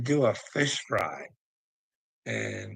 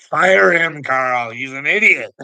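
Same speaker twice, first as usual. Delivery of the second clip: mock angry shout; 3 semitones higher, 11 dB louder than usual. Onlooker urges Carl to fire him, shouting. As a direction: bellow it like an outraged onlooker. Acted urging to fire Johnny.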